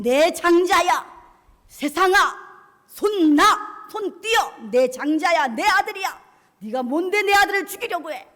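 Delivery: furious protective shout, acted as God; God thundering. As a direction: bellow a rebuke in short bursts. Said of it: "하나님은 호통을 치시는 거예요".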